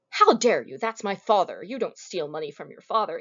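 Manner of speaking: hammed-up indignant son, loud at the start; mock outrage. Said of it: "we'd expect him to say".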